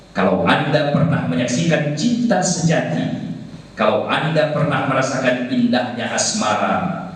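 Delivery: dramatic romance show announcer; TV promo read. Shown as a demonstration. Trainer demos a love-show promo to class, announcer voice.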